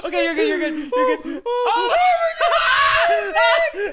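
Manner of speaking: high, loud laughing through words; laughing so hard it turns to tears; crying with laughter. Real, not acted. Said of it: "I'm crying".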